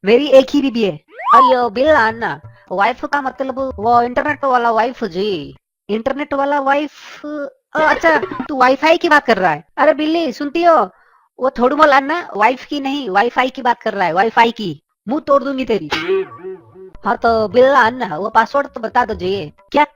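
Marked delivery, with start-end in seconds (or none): 1.3-5.6 singsong South Indian Hindi with a lilt; South Indian accent. Acted. Neighbour Anna calls Billa at night, in a South Indian accent. 9.8-15.9 shrill angry wife. Acted. Wife yells at her husband over the late-night call, angry.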